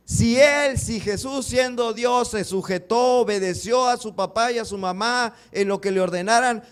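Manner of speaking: stretched words at full preaching force; fervent preaching. Acted. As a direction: hammer the point home to the congregation.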